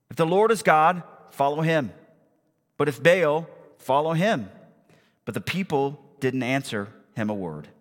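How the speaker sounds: emphatic, measured public Bible reading; deliberate dramatic narration; scripture reading. A narrator's reading. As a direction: read the story out to a congregation with weight. Reads scripture aloud to congregation.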